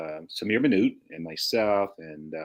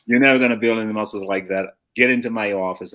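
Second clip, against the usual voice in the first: louder mock scolding of a teenager; animated gym boss; 5 dB louder than usual. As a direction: bawl out the kid, retold with some force. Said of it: "very animated".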